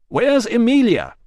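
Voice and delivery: loud, slow, high yell. Acted. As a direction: yell over the screaming. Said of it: "yelled Rousseau".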